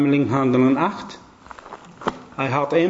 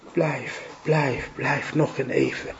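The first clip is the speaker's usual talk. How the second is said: gentle Lord; 6 dB quieter, slower than usual. Acted.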